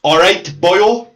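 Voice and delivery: put-on slow Welsh demo of boyo; unhurried Welsh greeting; Welsh accent. Shown as a demonstration. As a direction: model "boyo" slowly in Welsh. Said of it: "Just say".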